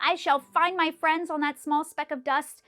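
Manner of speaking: loud, vowing cry; determined cry. A narrator's reading. Horton vowing to the eagle, loud and determined. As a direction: swear you'll find them. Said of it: "cried Horton".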